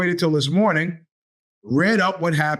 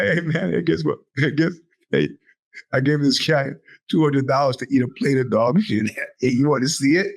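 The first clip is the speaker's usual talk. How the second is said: lower, gloating Trump voice with chuckles; lightly voiced smug Trump, laughing at his marks; mock Trump; 3 semitones lower than usual. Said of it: "Trump is sitting around going".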